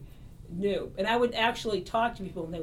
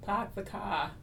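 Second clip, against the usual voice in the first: put-on Boston accent; slower than usual. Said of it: "This is Karen from Boston".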